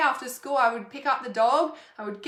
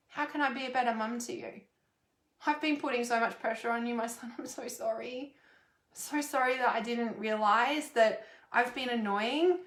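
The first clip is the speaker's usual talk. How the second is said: tender apology. Pretend. Mum apologising to her son.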